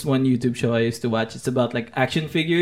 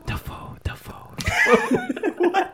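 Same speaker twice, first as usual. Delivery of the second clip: whispering; 4 dB quieter, much slower than usual. Retold or imitated. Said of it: "he just suggests".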